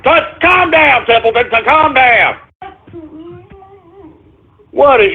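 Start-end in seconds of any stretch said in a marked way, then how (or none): 0.0-2.4 calm the dog down, pitched up; high coaxing pet voice; soothing the dog. Real, not acted. Calming barking dog.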